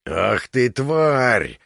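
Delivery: loud furious snarl; enraged giant's snarl; angry growl. A narrator's reading. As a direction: snarl it at her in rage. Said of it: "со злостью зарычал".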